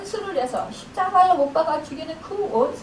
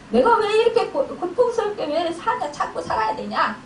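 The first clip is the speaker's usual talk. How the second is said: aggrieved, indignant; 3 semitones lower than usual. Acted. Wife venting at the husband who troubles her, mock indignation. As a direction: pour out a wronged spouse's grievance. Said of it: "이러면서 억울해하면서 분해하면서".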